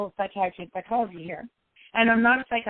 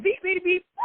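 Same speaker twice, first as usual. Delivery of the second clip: sharp mock-bleeps pitched far up; bleeped anguish; 10 semitones higher than usual. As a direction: spit out the censored curses in a high burst. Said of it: "at one point in time".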